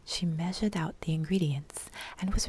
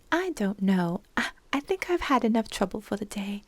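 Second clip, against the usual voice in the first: uneasy; 4 semitones higher, 5 dB louder, faster than usual. Acted. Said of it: "she said uneasily".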